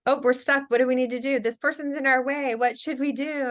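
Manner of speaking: playing the embarrassing parent in the store aisle. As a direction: ham it up to make her speak up. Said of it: "use that voice".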